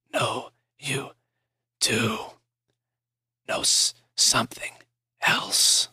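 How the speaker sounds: breathy unvoiced whisper; weak whisper. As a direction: whisper haltingly, fighting for breath. Dying man whispers.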